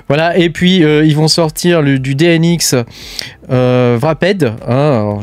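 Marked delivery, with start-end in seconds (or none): 4.0-4.4 "Wrapped" in a French speaker's English accent; attempted English accent on "Wrapped"; self-mocked English accent. Real, not acted. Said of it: "je fais avec mon super accent anglais".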